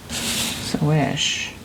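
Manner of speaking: whisper. Acted. Whispering card meaning.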